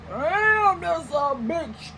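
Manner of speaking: high, drawn-out mock amazement; mock-impressed. Woman imagines being made to second guess, mock-impressed. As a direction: start high and stretch it out, hammed-up awe.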